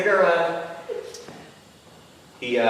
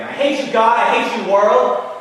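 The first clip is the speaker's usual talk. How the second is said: high-pitched, half-held-back yell; raised angry cry; angry screaming; 7 semitones higher, 5 dB louder than usual. Acted. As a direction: act out a furious boy yelling at the heavens. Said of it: "he screams again".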